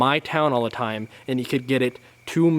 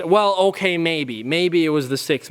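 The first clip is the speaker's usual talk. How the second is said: higher, grudging whiny mock of the dad; 4 semitones higher than usual. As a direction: back down reluctantly in a high whine. Imitating the dad backing down.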